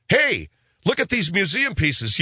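high, drawn-out call to look; mock amazement. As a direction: play an awed museum visitor. Mimics a museum visitor gawking.

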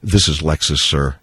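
low, haughty salesman voice; deadpan snob, pitched low; snooty salesman. Retold or imitated. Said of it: "with a straight face and says".

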